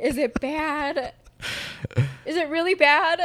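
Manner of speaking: high, loud, laughing dismay; mock wail. Asking her best friend about the returned accent, mock wail.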